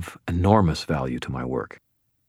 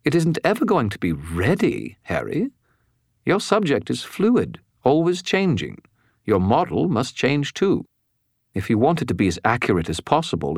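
much higher know-it-all spirit; lecturing skull voice; 5 semitones higher than usual. A narrator's reading.

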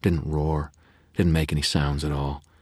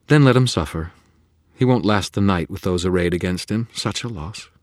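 loud, high callous dismissal; cold faerie; 5 semitones higher, 7 dB louder than usual. A narrator's reading. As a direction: shrug off his fate. Faerie threatens to walk away.

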